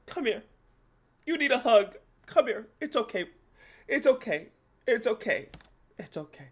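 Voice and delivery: mock comforting. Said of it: "I was like".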